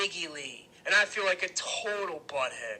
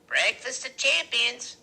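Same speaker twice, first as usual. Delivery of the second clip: high, loud, drawn-out announcement; Loretta's toast; 9 semitones higher, 8 dB louder, slower than usual. A narrator's reading. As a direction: proclaim it slowly, high and loud.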